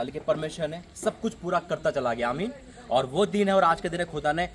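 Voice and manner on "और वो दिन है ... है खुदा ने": emphatic sermon with forceful peaks; fervent preaching. Real, not acted. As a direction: preach it with rising conviction, then drop to close. Preaches to the congregation.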